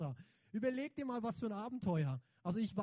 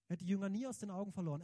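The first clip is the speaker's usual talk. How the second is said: fast repeat; much faster than usual. Shown as a demonstration. Preacher repeating his point to the congregation, fast with stress on "nie". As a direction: rattle off "Er hat die Jünger nie aus den Augen verloren" quickly, hitting "nie". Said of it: "repeated faster".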